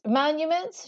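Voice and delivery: playful correction, rising; mock-innocent tease; teasing. Queen teasing her architect, playful rising question. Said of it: "she teased".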